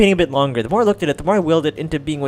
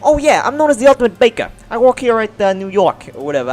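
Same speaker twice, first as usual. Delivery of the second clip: put-on New York accent; 3 semitones higher, 3 dB louder than usual. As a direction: play a chatty New York baker girl. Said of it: "I'm trying to make it sound New York".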